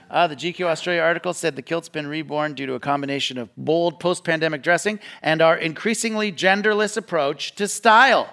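ordinary delivery

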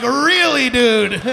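loud unimpressed "really, dude"; incredulous. Pretend. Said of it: "Black people across America are like".

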